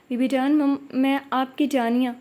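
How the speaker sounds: ہلکا سا روتے ہوئے، اٹکتی اور دھیمی آواز; عرصے بعد اپنے کو دیکھ کر رندھی آواز میں; کانپتی آواز. Acted. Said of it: "اس کی آواز کانپ رہی تھی". (بی بی جان سے ملتے ہوئے ہلکی سی رندھی آواز میں)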